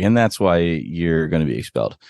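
imitating a deadpan delivery, tone unchanged; understated, matter-of-fact verdict. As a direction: say it evenly, with no shift in tone. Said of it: "His delivery was so deadpan".

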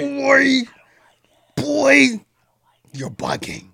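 hushed teasing whisper. Real, not acted. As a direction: breathe it out, no voice. Playful aside while song plays.

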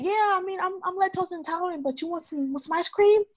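cheery, clueless parody; imitating Josie offering ice cream; mocking Josie. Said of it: "Josie said".

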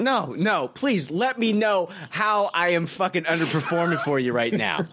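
sarcastic. Acted. Sarcastic rant at yawning cohost.

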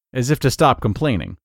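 ordinary delivery

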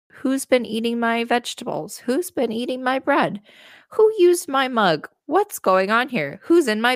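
freaking out dwarves. Acted. Dwarves freaking out over their messy house, high and frantic. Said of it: "So they're all freaking out".

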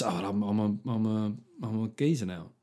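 lightly put-on cockney geezer; mock geezer voice. Mocking someone's claim, in a light cockney geezer voice. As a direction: toss it off like a London geezer. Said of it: "that's not how they would say it".

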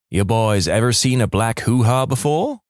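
lightly imitating a would-be seductress; a hint of badly faked sultriness; attempted sexy voice. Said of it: "in an attempt at a sexy voice".

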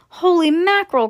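high, loud startled exclamation; alarmed cry. Acted. Father crying out at the thought of a crash. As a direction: blurt it out in shock. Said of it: "cried Mister T V".

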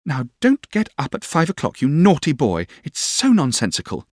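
pretty, high-pitched coaxing; wheedling little doll-like voice; Dora. Acted. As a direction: coax and playfully scold, pitched well up. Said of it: "in her pretty coaxing way".

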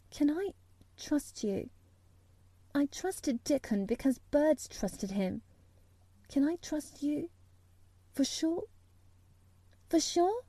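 high, soft, halting plea; imploring. A narrator's reading. Mary begging Colin to be trustworthy, imploring. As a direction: plead earnestly, pausing between phrases. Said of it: "she implored".

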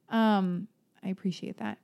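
ordinary talk

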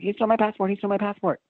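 a high, insistent shout of the accusation; a high-pitched pleading yell to the police; retold desperate yell. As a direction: make them listen, she's the victim. Pleading to the police mid-scuffle.

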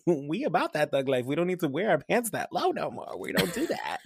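mock thug talk. Mocking the son's thug act, hammed-up swagger. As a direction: lay on the swagger to mock him.

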